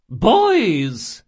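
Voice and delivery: high, loud call; concerned old woman. Acted. Old shopkeeper to distraught boys, loud worried call.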